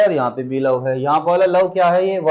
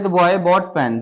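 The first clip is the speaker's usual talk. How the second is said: slow read-out; much slower than usual. Shown as a demonstration. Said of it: "reads example slowly".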